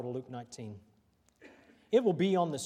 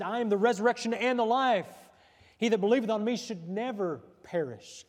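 preaching; 6 semitones higher, 5 dB louder than usual. Acted. Declaims scripture in preaching.

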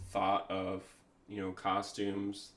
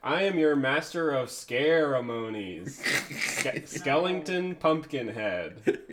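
horror host; 4 semitones higher, 6 dB louder than usual. Acted. Reading spooky host text.

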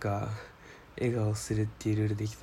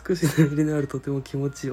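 emphatic reread; 4 semitones higher, 6 dB louder than usual. Shown as a demonstration.

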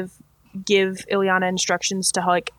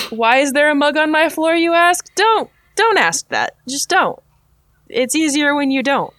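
sheepish; 7 semitones higher, 4 dB louder than usual. Real, not acted. Embarrassed about mug on floor.

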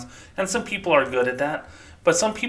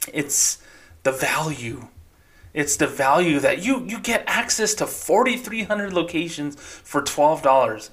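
bank rep tone. Retold or imitated. Ex-employee mocks bank script to viewers, smooth salesy tone. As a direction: sell the value like a scripted rep. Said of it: "I still have that tone".

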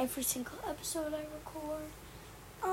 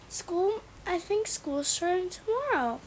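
louder, flustered realization; alarmed surprise; 4 semitones higher, 5 dB louder than usual. Real, not acted. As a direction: blurt it out in a panic. Alarmed at school starting tomorrow.

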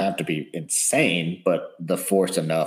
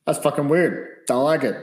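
high, louder creeped-out reaction; 7 semitones higher, 4 dB louder than usual. Retold or imitated. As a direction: blurt it out, weirded out. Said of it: "I'd just be like".

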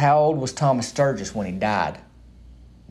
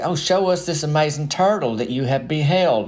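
mock admiring townsfolk; 4 semitones higher than usual. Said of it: "people would say".

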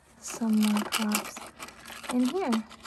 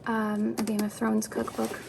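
breathless from talking; out of breath. Real, not acted. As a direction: talk while short of breath. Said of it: "I am getting so out of breath".

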